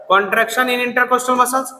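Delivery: slow, deliberate dictation. Shown as a demonstration. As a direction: lay out each word for the class. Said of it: "बोल ना". (धीरे-धीरे साफ़ बोलना)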